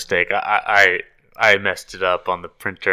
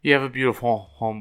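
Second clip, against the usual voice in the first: nervous overly polite; 3 semitones higher than usual. Acted. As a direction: slip the compliment in shyly. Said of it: "I, I, I'm shy".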